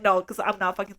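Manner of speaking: understated, dry retold put-down. Imitating the boyfriend who wasn't shouting, just dry. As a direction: say it drily, without raising the voice. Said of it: "He was just, like, dry".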